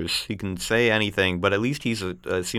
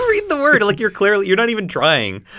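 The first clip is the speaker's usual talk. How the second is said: laughing; 10 semitones higher, 6 dB louder than usual. Real, not acted. Laughing teasing co-host.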